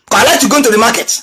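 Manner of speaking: normal talking voice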